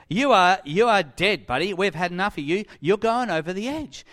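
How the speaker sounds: acted-out threat from an angry crowd; hammed-up angry threat, punched at the start; angry mob. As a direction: turn on him like a furious mob. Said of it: "big mob of angry people".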